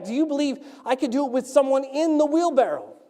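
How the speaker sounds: high, projected challenge; showman shouting back. Acted. Tightrope walker upping the dare to the crowd, shouting. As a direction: call it out across a crowd. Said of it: "He shouts back".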